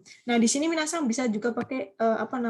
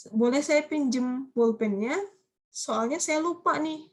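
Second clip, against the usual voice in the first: slow example request; 3 semitones higher, slower than usual. Shown as a demonstration.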